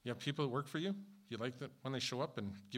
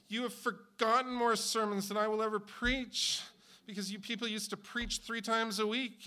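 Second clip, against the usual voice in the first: much higher and louder, fervent and full-throated; passionate tribute; 10 semitones higher, 8 dB louder than usual. Real, not acted. Pastor hails the ninety-six-year-old pastor, fervent and loud. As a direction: build it into a loud, awed tribute. Pastor addresses elderly retired pastor.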